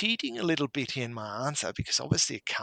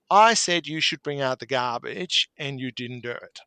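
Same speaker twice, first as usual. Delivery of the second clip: mock scolding wife; 6 dB louder than usual. Wife voiced, scolding husband.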